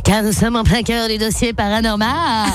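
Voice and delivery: spooky voice. Acted. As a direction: play it eerie and ominous. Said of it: "pourquoi je prends cette voix qui fait peur".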